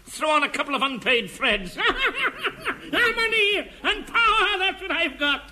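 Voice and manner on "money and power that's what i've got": high cackling miser glee; gloating cackle. Acted. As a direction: cackle over your money like a miser. Miser gloating over wealth.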